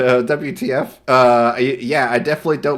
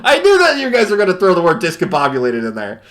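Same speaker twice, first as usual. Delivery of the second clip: laughing; 5 semitones higher, 4 dB louder, faster than usual. Real, not acted. Laughing, called it.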